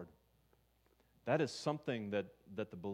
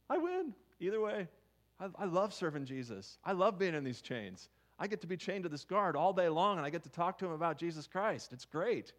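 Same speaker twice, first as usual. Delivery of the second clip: high, loud, bubbling with joy; rejoicing Paul; 8 semitones higher, 5 dB louder than usual. Retold or imitated. Paul rejoicing to the congregation about his chains, high excited voice. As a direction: celebrate being in chains, high and bright. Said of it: "He's like".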